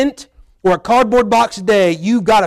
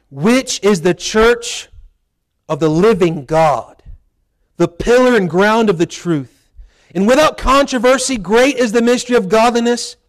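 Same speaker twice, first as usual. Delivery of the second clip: scripture reading. Acted. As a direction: read the verse with weight and pauses. Reads scripture aloud.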